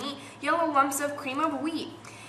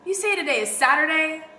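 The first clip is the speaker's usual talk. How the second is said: delighted disbelief; 4 semitones higher, 5 dB louder, faster than usual. Acted. Peggy hears it's Saturday.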